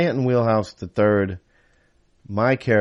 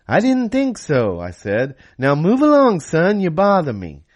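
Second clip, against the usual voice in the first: higher, louder gruff-joking singer voice; a famous singer imitation; 7 semitones higher, 6 dB louder than usual. Singer as a famous singer shooing away the teen boy. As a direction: brush the kid off as the famous singer. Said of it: "imitation voice".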